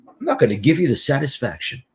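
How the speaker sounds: a hint of a pouting, stubborn man; grudging, sulking reply, lightly voiced; sulky refusal. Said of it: "he starts to pout like this".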